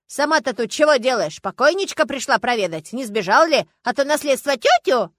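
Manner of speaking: громко, с напором; обвиняй и насмехайся; злая перепалка. Acted. Знахарка нападает на даму. (злой напор)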